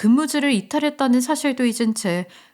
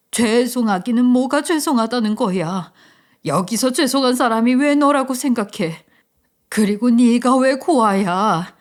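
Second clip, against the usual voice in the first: mildly raised voice, a touch of tears, slowing down; crying, shouting mother. Acted. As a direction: plead through tears with a hint of a shout. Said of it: "서럽게 울다 저를 보면서 소리치는". (울먹이며 소리치는 엄마)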